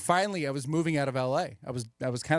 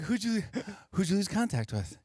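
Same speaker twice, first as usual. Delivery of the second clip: laughing through a Wahlberg bit; a hint of Mark Wahlberg; Mark Wahlberg impression; 3 semitones higher than usual. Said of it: "he's like".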